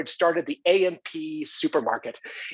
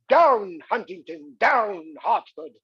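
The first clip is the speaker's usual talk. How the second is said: mock shout at dogs; slower than usual. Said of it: "I shouted to my dogs".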